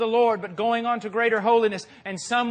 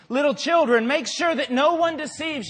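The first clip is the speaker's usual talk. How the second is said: read out with emphasis; 6 semitones higher, 4 dB louder than usual. Retold or imitated. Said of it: "it's talking about".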